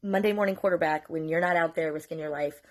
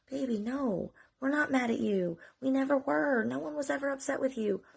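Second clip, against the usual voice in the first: retold reassurance; 8 semitones higher than usual. Parents reassuring their daughter, retold.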